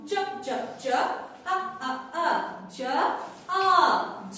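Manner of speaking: জ and আ in short separate beats, then drawn together; teacher's drill of জ and আ; phonics sounding-out. Shown as a demonstration. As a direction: chant জ, জ, জ, আ, আ, আ, then blend. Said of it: "জে sounds like জ".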